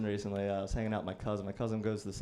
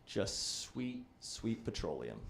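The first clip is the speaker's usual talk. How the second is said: low, softer disgusted murmur; 4 semitones lower, 7 dB quieter, much slower than usual. Retold or imitated. Describing cheap vodka, low disgusted murmur. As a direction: let it sink low in distaste.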